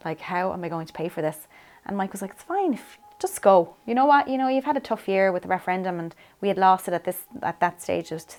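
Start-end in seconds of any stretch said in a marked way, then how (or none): 2.3-6.0 retold husband waving the worry away; higher, insistent reassurance, imitating a husband; reassuring husband. Voices husband urging her to go.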